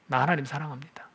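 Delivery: a quiet, intimate prayer line; soft confession. Shown as a demonstration. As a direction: say it gently, almost to yourself. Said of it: "하나님, 나 사랑합니다".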